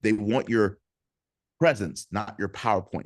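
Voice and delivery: "presence, not your PowerPoint" slowed, with a pause after "They want your"; slow it down and let each word land. Shown as a demonstration. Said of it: "I'm gonna say that again slower".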